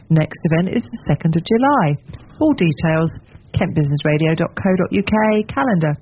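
speaking round a tablet under the tongue. Real, not acted. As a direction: talk with a pill under your tongue. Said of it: "which is why I'm speaking like this".

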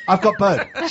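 put-on laughing hammy pirate accent, loud and high. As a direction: cackle it out like a pirate. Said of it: "Talk Like a Pirate Day".

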